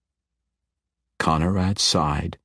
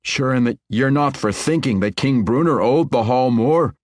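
scolding; 7 semitones higher, 4 dB louder than usual. Acted. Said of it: "Conrad scolded the general".

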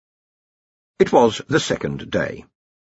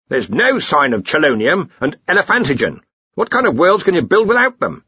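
higher, indignant boss voice; Ridcully; 8 semitones higher, 4 dB louder than usual. Acted. Arch-Chancellor finds the elements missing, indignant. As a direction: complain as if personally let down.

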